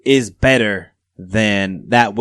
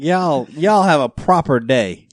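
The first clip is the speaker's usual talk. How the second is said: mock British Southern twang; 2 semitones higher, 5 dB louder, slower than usual. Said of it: "a British Southern twang".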